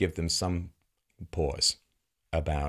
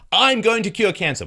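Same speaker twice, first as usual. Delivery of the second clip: mock insistence, louder; 11 semitones higher, 8 dB louder than usual. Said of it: "mock dialogue with investors".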